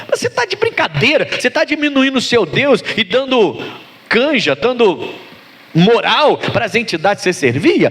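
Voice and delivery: incredulous, high-pitched scolding from the pulpit; fervent sermon reproach; preacher's rebuke. Real, not acted. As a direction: challenge them with swooping, emphatic questions. Rebukes congregation while preaching.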